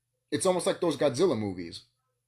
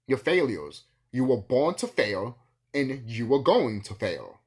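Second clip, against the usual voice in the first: taunting; 4 dB louder, slower than usual. Real, not acted. Taunting the enemies.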